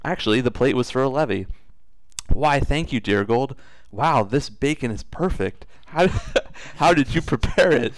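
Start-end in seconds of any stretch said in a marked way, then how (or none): 2.3-7.9 cartoon princess. Princess voiced in read story.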